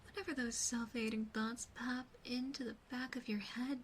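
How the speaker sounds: ordinary talk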